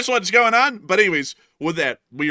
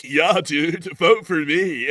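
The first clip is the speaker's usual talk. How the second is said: mock California surfer; 4 dB louder, much slower than usual. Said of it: "transplant accents wherever I'm at".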